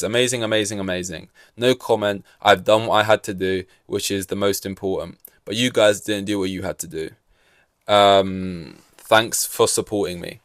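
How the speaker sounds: a hint of dry sarcasm, barely voiced; lightly sarcastic radio message. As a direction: say it flat and mocking. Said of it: "that's sarcasm".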